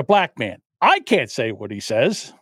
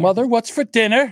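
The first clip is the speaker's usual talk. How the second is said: higher, light husband voice; husband calling wife mother; 7 semitones higher than usual. Retold or imitated. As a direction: call out to his wife at dinner. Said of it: "guy always calls her mother".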